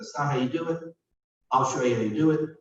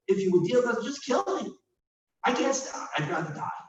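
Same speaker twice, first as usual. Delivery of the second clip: despairing Moses; 7 semitones higher than usual. Acted. Moses begging to die.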